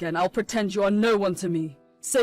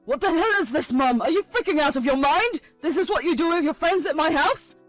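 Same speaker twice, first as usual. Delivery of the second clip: louder, higher angry demand; sons' angry confrontation; 4 semitones higher, 6 dB louder than usual. Acted. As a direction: demand answers from a mother who betrayed them. Sons confront their mother.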